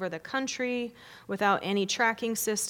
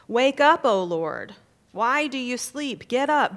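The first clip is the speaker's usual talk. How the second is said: high, loud urgent plea; crying out to God; 4 semitones higher, 6 dB louder than usual. Acted. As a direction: call out to wake a sleeping God. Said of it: "the psalmist crying out to God".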